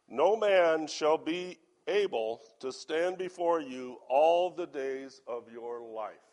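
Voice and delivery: loud, measured Bible reading; scripture reading. Acted. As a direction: read the verse out firmly, drawing out the end. Reads scripture to congregation.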